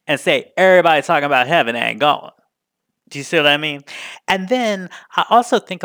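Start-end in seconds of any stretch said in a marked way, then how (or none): 0.6-2.3 a touch of a proper churchgoing singing voice; Sunday best voice. Shown as a demonstration. Singing the spiritual to the masters in a proper Sunday voice. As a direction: present it sweetly like in church. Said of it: "with your best Sunday best voice".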